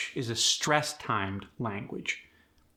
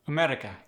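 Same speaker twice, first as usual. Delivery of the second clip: "America" with all syllables evenly weighted; level out the stress on "America"; Khmer-style "America", no syllable standing out; 2 semitones higher, much faster than usual. Shown as a demonstration. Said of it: "it's gonna be even".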